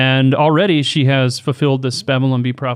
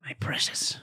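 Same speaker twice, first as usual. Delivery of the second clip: whispered, hissing creature voice; Gollum voice; 14 dB quieter than usual. Pretend. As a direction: breathe it like a hunched creature. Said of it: "Can you do a Gollum voice".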